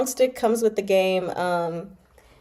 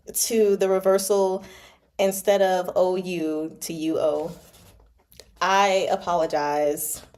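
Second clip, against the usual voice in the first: solemn formal apology. Pretend. Mock-formal apology to readers.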